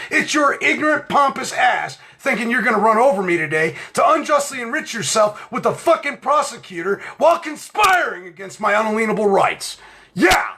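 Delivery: tearing into her as he retells it; retold courtroom tirade.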